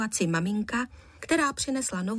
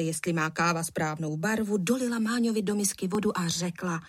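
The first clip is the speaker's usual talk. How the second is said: plain reading voice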